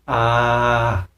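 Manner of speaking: short open "Ah" pushed from the belly; a belly-breath "Ah" called out; demo shout sound. Shown as a demonstration. Teacher demonstrating a shouted "Ah" from the diaphragm. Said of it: "seperti suara berteriak".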